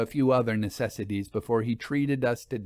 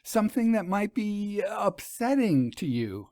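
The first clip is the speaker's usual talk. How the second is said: higher, breathless rush to confess; anxious urgency; 8 semitones higher than usual. A narrator's reading. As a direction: stumble over words, worried.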